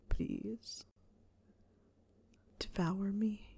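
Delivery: hushed, unvoiced begging whisper; whispered plea. A narrator's reading. Harry begging Snape in a whisper. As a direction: breathe the plea out.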